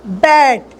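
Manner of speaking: बैट as a single pure vowel; pure vowel demo. Shown as a demonstration. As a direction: show बैट with no mouth change. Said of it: "मेरा movement कोई change नहीं हुआ".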